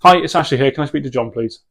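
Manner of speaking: short, firm and matter-of-fact; direct phone request. Shown as a demonstration. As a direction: ask for John and stop dead. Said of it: "absolutely nothing else".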